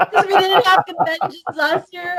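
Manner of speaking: high-pitched comic wail; mock tearful. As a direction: whimper it as if welling up. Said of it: "I'm tearing up 'cause".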